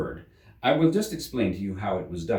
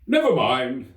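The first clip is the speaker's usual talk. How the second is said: relieved; 4 semitones higher, 7 dB louder, slower than usual. Acted. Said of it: "with an air of great relief".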